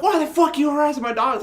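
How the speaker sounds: dad's high angry yell at the stranger, imitated; retold yell. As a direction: shout it at the man in the yard, mock-angry. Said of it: "Like, yelling at this guy".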